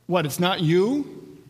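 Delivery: incredulous crowd. Acted. Crowd reacting in disbelief to Jesus.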